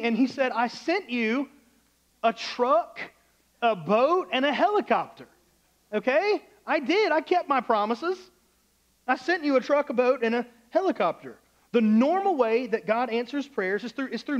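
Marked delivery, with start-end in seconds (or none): 0.5-11.4 high, raised, emphatic comeback; exasperated retort. Acted. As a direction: list each thing with pointed pauses. God answers the man's complaint.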